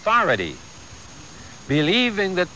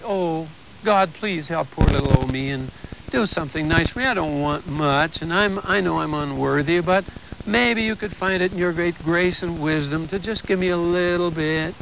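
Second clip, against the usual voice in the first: mock meek prayer; 3 semitones higher than usual. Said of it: "But we still pussyfoot".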